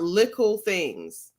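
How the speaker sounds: lightly imitated Jamaican pronunciation; mock Jamaican accent. Asking why a Somalian says it, mock Jamaican. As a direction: throw the Jamaican-style "little things" back mockingly. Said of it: "You're not even Jamaican".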